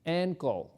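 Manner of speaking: Ankle said as "enkol", open e at the start; correct pronunciation. Shown as a demonstration. Teacher models Ankle for students as "EN-kol", careful and clear. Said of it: "Vamos a pronunciar bien".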